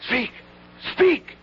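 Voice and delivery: booming high proclamation shout; shouting herald. Acted. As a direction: call the crowd to silence. Herald silencing the crowd.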